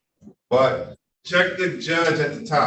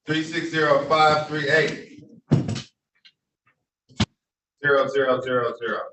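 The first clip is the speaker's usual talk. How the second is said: dictating. Shown as a demonstration. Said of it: "read the Zoom code back to me".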